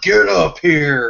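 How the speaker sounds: put-on yell through clenched teeth. Telling Doug how the man should have yelled at the dude, retelling a gritted-teeth yell. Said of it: "gritted through his teeth, just yelled".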